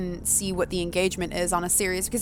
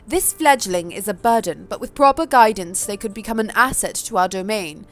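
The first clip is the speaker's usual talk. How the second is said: put-on posh accent. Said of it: "give Sophie a slightly different accent".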